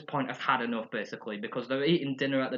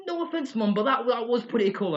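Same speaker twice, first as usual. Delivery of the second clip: Lisa voice; 8 semitones higher, 3 dB louder than usual. Retold or imitated. Lisa admiring the ricochet.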